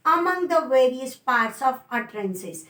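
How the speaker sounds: very slow, word by word dictation. Shown as a demonstration. Teacher dictating a definition to students, very slow. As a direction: spell out the definition slowly so students can write.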